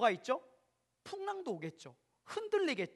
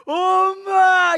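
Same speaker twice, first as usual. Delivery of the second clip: long, very loud high wail of "엄마"; child wailing for mom; 9 semitones higher, 19 dB louder, much slower than usual. Retold or imitated. Child running to mom, wailing very loud and high. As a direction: wail for mom like a crying toddler. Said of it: "이러면서 가요".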